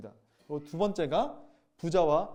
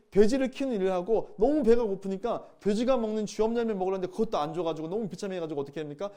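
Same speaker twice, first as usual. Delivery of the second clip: usual speaking voice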